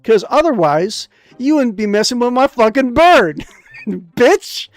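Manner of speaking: high sugary greeting that turns into a loud threat; sweet-then-menacing healer. Acted. Healer greets the hero, then threatens over her bird.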